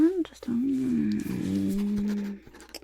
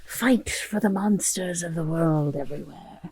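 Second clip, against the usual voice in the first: rallying cry; 5 dB louder than usual. Acted. Rallying the monster for a campaign.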